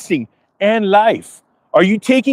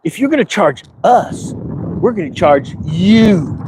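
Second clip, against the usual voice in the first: mock Trump; slower than usual. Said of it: "Trump's like".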